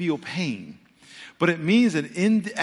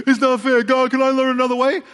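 whining to God; 10 semitones higher, 6 dB louder than usual. Acted. Believer complains to God.

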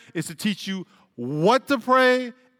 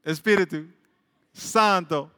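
Italian accent; slower than usual. Shown as a demonstration. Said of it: "I'm saying a Spanish word with an Italian accent".

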